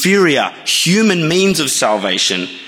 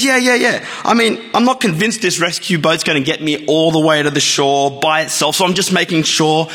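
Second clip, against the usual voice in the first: lightly voiced jumper; 4 semitones higher than usual. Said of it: "He says".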